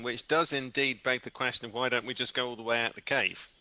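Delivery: normal talking voice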